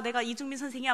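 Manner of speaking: usual speaking voice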